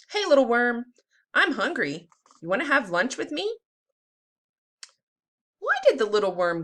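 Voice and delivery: put-on lively storybook read-aloud for kids; teacher reading a worm book to the class; reading to children. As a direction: read it like circle time, bright and clear. Teacher reads picture book aloud.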